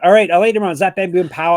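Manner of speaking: loud, high game-show style announcing; hyped segment intro. Pretend. Host kicks off the lightning round for his co-host, hyped announcing. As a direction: announce it with a big punchy burst.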